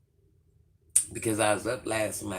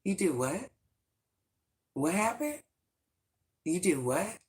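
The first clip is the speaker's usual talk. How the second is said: incredulous landlord; 7 semitones higher than usual. Retold or imitated. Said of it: "The landlord said".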